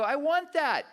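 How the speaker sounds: high, loud, punchy declaration; eager wanting. Acted. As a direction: blurt it out with eager desire. Acted eager wanting before knowing cost.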